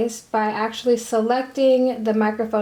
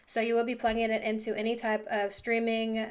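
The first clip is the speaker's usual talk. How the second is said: close-miked, quieter USB mic sound; softer dry sound from a small desk mic; 8 dB quieter than usual. Real, not acted. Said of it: "the rest of this audio from this video is gonna be off of this microphone".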